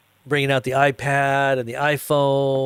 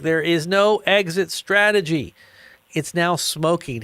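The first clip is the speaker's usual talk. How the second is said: mock calm CEO; 5 semitones higher, slower than usual. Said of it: "he's like".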